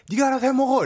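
high, curt mom voice; mother brushing off. Retold or imitated. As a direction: toss it off like a busy mom. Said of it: "이랬는데".

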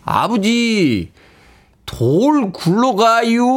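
아주 느리게 늘어지는 경고; slow Chungcheong warning. Retold or imitated. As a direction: warn too slowly to help. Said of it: "충청도 사투리의 클래식".

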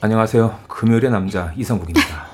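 dropped into a low put-on voice; lowering the voice for a moody rainy day; extremely deep bass voice. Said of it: "왜 목소리 깔아요?".

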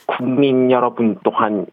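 slow deliberate speech of a female head of state; Park Geun-hye impression. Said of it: "박근혜 저 대통령님 한번 시작해 보겠습니다".

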